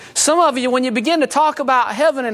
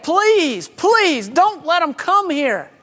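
begging rich man; 5 semitones higher, much slower than usual. Retold or imitated. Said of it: "he begged".

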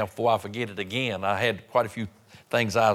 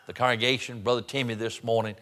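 earnest pastoral prayer in short running phrases; public prayer. Real, not acted. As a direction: lead the congregation in thankful prayer. I want to pray.

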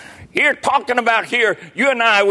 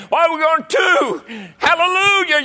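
ecstatic shout; 7 semitones higher than usual. Real, not acted. Preacher answering the troubled, shouting for joy.

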